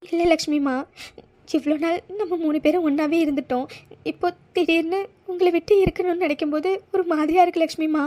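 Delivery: upset, on the edge of tears; mildly weepy, pleading; tearful. Acted. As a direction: protest sadly at the parting. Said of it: "நீ எப்படி அழுதுட்டே இருந்தா".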